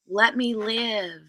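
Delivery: slow drawn-out "Let me live"; a hint of a put-on diva; slow put-on sass. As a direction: stretch the words, lightly sassy. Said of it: "Who am I pretending to be".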